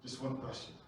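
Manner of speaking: loud, overjoyed reverse-psychology praise; mock amazed praise. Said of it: "And I'm looking at".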